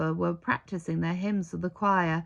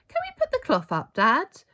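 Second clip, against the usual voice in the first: put-on high, eager child voice; pleading child; 8 semitones higher, 6 dB louder than usual. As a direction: beg like an excited boy. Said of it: "Jonathan pleaded".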